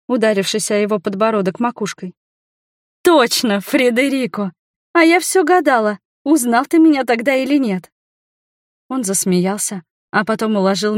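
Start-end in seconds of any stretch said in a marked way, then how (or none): 3.0-7.9 excited. A narrator's reading. Sudden realisation, excited.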